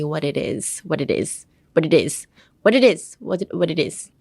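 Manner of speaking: WHAT IT IS run together in a bouncy beat; song-like intonation. Shown as a demonstration. Teacher drilling the K-pop rhythm, linked-up WHAT IT IS. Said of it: "sing the group's song, you can say".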